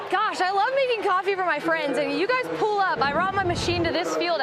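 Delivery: talking while catching breath; winded after the play. Real, not acted. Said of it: "I'm so out of breath after that".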